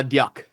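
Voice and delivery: "Duck" with a y-glide after the D; own pronunciation of Duck. Shown as a demonstration. Co-host showing how he says it, Duck with a y sound. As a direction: say "Duck" as D-yuck. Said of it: "That's how I say it".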